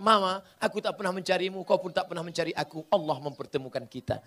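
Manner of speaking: husband sweetly tells his wife Allah brought them together; tender words to wife. Pretend. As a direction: speak gently to your wife. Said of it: "Pulang dari sini katakan".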